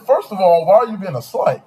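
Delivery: high, loud indignant comeback; loud retort. Retold or imitated. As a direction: fire it back, outraged. Retold comeback to ex.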